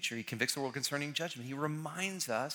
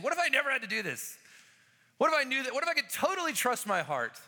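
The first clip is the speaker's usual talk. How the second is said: wistful inner voice; 9 semitones higher, 4 dB louder, faster than usual. Retold or imitated. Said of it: "and so I'm like".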